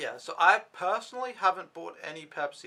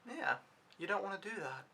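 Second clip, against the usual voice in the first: softer, higher, measured warning; calm warning; 4 semitones higher, 6 dB quieter than usual. Retold or imitated. Telling off a food-throwing boy, calm warning. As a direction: calmly warn them off, keeping it soft. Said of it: "I've never been so calm about telling someone".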